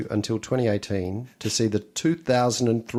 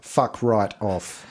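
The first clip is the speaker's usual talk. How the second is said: slow deliberate quote; much slower than usual. Retold or imitated. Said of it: "I'll quote you then".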